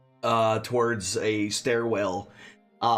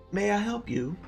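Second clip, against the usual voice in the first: lightly voiced old barkeep; a hint of a frail old man; 8 semitones higher than usual. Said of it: "He's a very old man".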